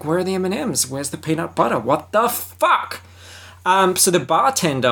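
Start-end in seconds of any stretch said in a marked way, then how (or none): 0.0-3.0 mock grumpy Scarlett. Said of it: "she's like".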